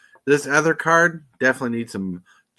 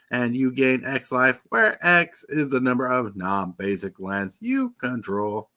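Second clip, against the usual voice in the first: robot voice. Pretend. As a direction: read it out like a robot, monotone. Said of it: "I gotta read this like a robot".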